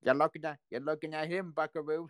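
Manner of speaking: put-on light Brooklyn accent, tough-guy swagger; a hint of a Brooklyn tough guy. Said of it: "Bon says in the Brooklyn accent".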